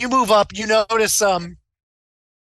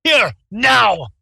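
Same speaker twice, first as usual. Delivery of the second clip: loud, higher shout of a name and an order; shouting a summons; 6 semitones higher, 5 dB louder, slower than usual. Acted. Innkeeper shouts for Sophia to come over, loud call. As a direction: bark for her to come at once. Innkeeper yells for his worker.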